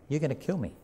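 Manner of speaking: quiet warning. Acted. Jesus quietly warning those who plot against him. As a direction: lean in and say it softly, like a secret.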